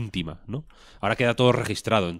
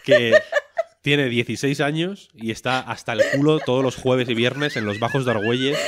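laughing; 4 semitones higher than usual. Real, not acted. Host jokes about Madrid teens.

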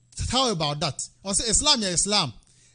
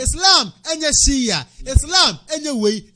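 preaching emphasis; 4 semitones higher, slower than usual. Real, not acted. Preacher insists, shouted.

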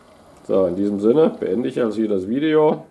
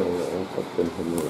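ordinary talk, nothing marked

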